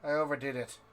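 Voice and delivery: loud, high growling dwarf warrior; gruff dwarf voice. Acted. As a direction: roar it like a drunk dwarf. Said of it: "and he says".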